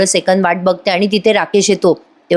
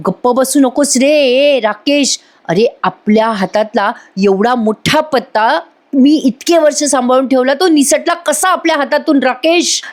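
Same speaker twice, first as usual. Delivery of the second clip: drawn-out dramatic reproach, climbing higher; acted exasperation; 5 semitones higher than usual. Priya reproaching Rakesh over the lost card, hammed-up exasperation. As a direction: lament the lost trump card, slow then rising.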